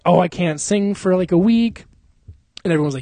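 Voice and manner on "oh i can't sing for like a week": whiny mock excuse, pitched up; lightly mocking higher voice; mock complaint. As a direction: mimic a singer making excuses. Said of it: "he's like".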